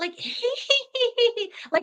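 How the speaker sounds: put-on high, creepy little girl laugh.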